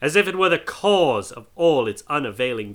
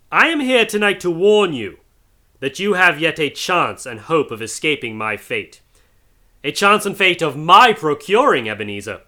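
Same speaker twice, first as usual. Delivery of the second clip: higher, louder grave warning; solemn ghostly warning; 5 semitones higher, 6 dB louder than usual. Acted. Marley's ghost warning Scrooge, solemn. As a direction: warn him with weight.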